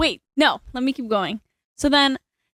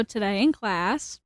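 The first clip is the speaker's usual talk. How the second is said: softer, held back from the microphone; slightly distant, softer delivery; too far from mic; 6 dB quieter, slower than usual. Real, not acted. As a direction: speak from a little way off the mic. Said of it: "Nope, closer".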